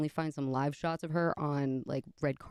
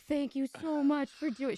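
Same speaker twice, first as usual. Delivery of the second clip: sweet high mimic; 11 semitones higher than usual. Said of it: "And she was just like".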